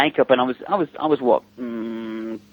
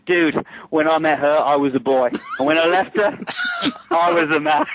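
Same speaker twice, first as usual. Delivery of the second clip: laughing quote; 3 semitones higher than usual. Retold or imitated. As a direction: crack up while quoting him. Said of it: "He goes".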